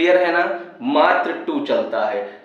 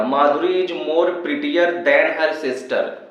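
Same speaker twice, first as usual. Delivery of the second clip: slow dictation; much slower than usual. Shown as a demonstration. Teacher slowly reading the sentence for students. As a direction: read "Madhuri is more prettier than her sister" very slowly. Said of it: "देखो क्या लिखा है".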